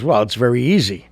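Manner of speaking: building to a loud, high punchline; punchline delivery. Retold or imitated. Woman delivering the punchline to the sailor, building loud.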